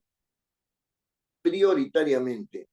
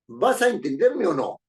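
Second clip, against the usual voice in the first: higher, louder, ordering tone; demanding question; 5 semitones higher, 4 dB louder than usual. Shown as a demonstration. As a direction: make the question a command. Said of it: "Si yo digo".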